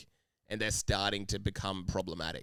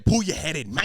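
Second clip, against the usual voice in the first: mock telling-off; 4 semitones higher, 7 dB louder than usual.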